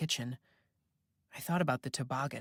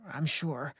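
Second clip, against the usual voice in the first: trembling voice. A narrator's reading. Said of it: "His voice trembled".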